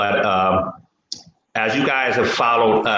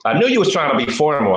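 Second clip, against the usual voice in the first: louder, faster teasing insistence; louder, faster repeat; 6 semitones higher, faster than usual. Real, not acted. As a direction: repeat it higher, louder and quicker.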